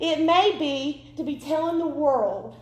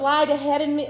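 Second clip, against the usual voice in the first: misspoken lied; 3 dB louder, faster than usual. Real, not acted. Preacher misspeaks to the congregation, saying "lied" by mistake. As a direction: slip on the verb, saying "lied ahead of me" before catching it. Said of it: "lies ahead of me".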